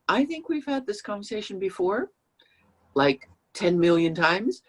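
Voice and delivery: mock-weary dig at the partner; exasperated sarcasm. Shown as a demonstration. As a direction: let the fed-up tone show, lightly mocking. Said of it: "You don't say that, obviously".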